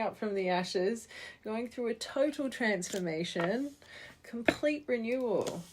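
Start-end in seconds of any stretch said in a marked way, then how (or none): none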